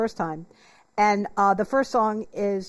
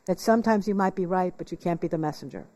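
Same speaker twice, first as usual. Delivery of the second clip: a hint of a wry admission; rueful admission; 4 semitones lower than usual. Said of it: "And I went".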